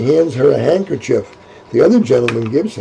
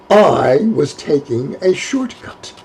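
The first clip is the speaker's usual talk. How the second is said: defiant; 2 semitones higher, slower than usual. Acted.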